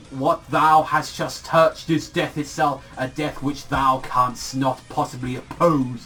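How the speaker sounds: slow, hammed-up old-fashioned grandeur; mock poetic. Mocking the villain's poetic lines, slow and grand. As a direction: ham up a pompous poet, drawing it out. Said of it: "he's trying to be all poetic".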